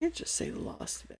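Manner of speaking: whispered under breath while reading; puzzled whisper. Real, not acted. Reading a sign aloud, streamer whispers to himself. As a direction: murmur it to yourself, puzzled.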